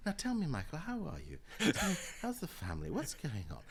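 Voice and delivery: mildly voiced kindly pastor; a hint of Paisley's pastoral charm; pastoral warmth. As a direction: turn suddenly friendly and caring. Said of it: "This is the pastoral man".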